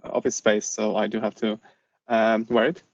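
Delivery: muffled behind a face mask; speaking through a mask, slightly muffled. Real, not acted. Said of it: "please forgive my mask".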